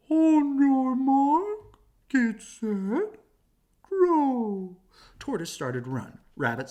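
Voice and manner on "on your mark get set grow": loud, stretched-out starter's shout; race announcer call. Acted. Owl starting the race, loud and drawn out. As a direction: bellow the start like a race official. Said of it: "Owl said".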